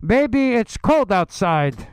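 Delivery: comic politician's flirtation; Sexy Bernie. Acted. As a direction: coax her in, hammed-up suave. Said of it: "What I said to her last night".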